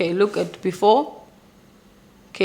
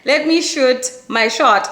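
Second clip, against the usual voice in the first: raised, punchy pep-talk to herself; excited, louder self-encouragement; hyped self-talk; 5 semitones higher, 5 dB louder than usual. Acted. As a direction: rev yourself up to go for it. Psyching herself up.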